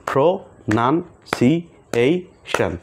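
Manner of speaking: প্রোনাউন্সিয়েশন slow in five beats, pro-naun-si-ei-shon; slow clapped syllables. Shown as a demonstration. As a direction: clap five times, slowly: প্রোনাউন্সিয়েশন. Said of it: "এখানে কয়টা আছে?".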